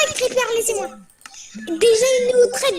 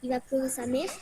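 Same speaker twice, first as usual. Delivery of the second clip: voice changer; 9 semitones lower, 10 dB quieter than usual. Pretend. Pranking rivals with changed voice.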